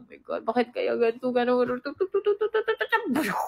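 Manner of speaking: imitating own panicked overthinking; overthinking inner voice.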